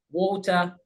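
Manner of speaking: "Water" ending in "-tuh", no r; British dropped R. Shown as a demonstration. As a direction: say "Water" the British way, final r silent. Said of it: "don't pronounce the ra at the end".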